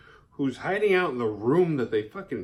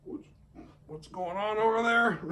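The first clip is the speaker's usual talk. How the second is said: high, startled gasp of a question; pitched-up fake alarm; mock alarmed; 10 semitones higher than usual. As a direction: play the nosy, startled bystander. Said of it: "but she's not like".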